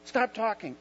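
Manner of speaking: sharp "shh", then a loud, high order; acted shushing. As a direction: shush him like an impatient disciple. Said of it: "turn to him and shush him".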